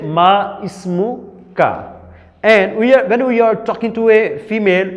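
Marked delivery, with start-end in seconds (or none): 0.0-1.9 slow teaching demo. Shown as a demonstration. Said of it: "In Arabic we say".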